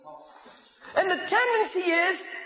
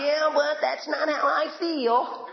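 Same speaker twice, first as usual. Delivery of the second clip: whiny doubter; slower than usual. Retold or imitated. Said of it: "I just gave you the word of God".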